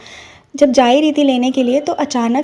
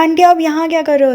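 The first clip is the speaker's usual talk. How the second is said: surprised; 5 semitones higher than usual. Retold or imitated. Delighted to meet the aunt.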